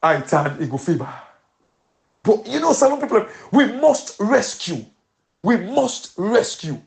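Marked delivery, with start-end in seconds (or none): 2.2-6.8 rallying call. Real, not acted. Rallying Salone people.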